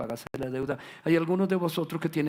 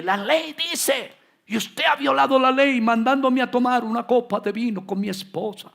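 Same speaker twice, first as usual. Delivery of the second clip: legalistic accuser; 8 semitones higher, 7 dB louder than usual. Retold or imitated. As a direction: play the rigid law enforcer pointing a finger. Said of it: "quiere hacer cumplir la ley". (acusador legalista, agudo y fuerte)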